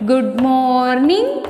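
"morning" drawn out slowly, rising at the end; model greeting. Shown as a demonstration. Teacher showing children how to greet a friend, "morning" slow and rising. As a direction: stretch "morning" and lift its last syllable. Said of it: "you can wish like this".

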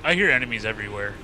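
talking while crunching chips; eating chips while speaking. Real, not acted. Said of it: "Quit crunching on chips".

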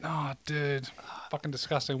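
hushed, revolted whisper; disgusted whisper. Real, not acted. Friend slurping sugary drink loudly.

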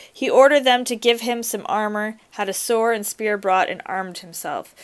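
reading a fairy tale aloud to a class; story reading. A narrator's reading. Teacher reads story aloud.

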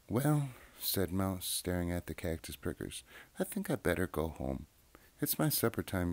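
gentle read-aloud voice with lively character voices; children's story reading. A narrator's reading. Reading a childhood book aloud, storyteller voice. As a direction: read it like a bedtime picture book.

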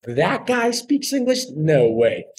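drawn-out disbelieving question, pitch jumping up; imitating a stunned producer; mock disbelief. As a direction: play the astonished producer. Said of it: "And they were like".

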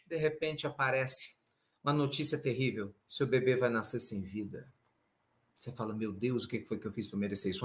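low, soft, sombre telling; grave sorrow. Real, not acted. Speaker telling of parents losing their baby, grave sorrow. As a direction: sink to a hushed, heavy tone for terrible news. Terrible news of a stillbirth.

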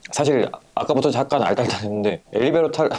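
words tangling after a drink; tipsy, tongue-tied. Real, not acted. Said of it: "말도 꼬이네?". (술에 살짝 취해 꼬이는 말투)

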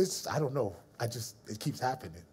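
puzzled shrug. Retold or imitated. Puzzled answer to friend.

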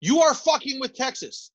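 mock slogan. Echoing slogan, mock grave.

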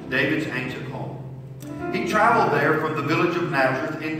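animated storytelling, stressed phrase openings; Bible story reading. Acted. Leader reads Luke's Christmas story to kids, animated reading. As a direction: read it out expressively for children.

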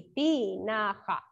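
"Tinaja" slowly, drawn out in three syllables. Shown as a demonstration. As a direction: spell out "Tinaja" by sound, ti... na... ja. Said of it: "Todas las escribieron así". ("Tinaja" lento, separando las sílabas)

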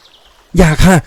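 high, drawn-out frightened plea; urgent cry to stop. A narrator's reading. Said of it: "ร้องห้ามเขา".

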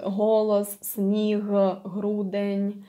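г in голос, сніг, грудень as a voiced exhale. Shown as a demonstration. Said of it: "and you use your voice".

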